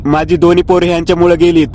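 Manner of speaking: crying. Acted. Grandmother mourning her lost sons to the aunt, lightly tearful. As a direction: lament with a hint of crying. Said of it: "आजी रडत रडत बोलली".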